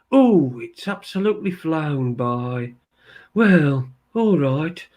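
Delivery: slow, lightly voiced Andy with a hint of a Birmingham twang; Andy impression. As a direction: do your best mimicry of Andy, drawn out. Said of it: "this is my best Andy impression".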